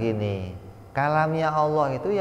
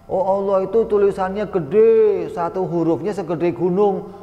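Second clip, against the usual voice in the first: higher and louder, a wide-eyed caricature; mocking a naive claim, higher and louder; mock naive believer; 7 semitones higher, 5 dB louder than usual. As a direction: play the gullible believer with raised mock awe.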